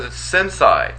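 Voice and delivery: sensei said as sen-SIGH; mispronounced sensei. Retold or imitated. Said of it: "when he screws up a word".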